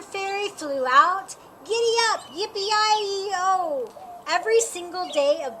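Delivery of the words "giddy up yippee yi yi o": cowboy whoop. Acted. Cowboy kid's presentation.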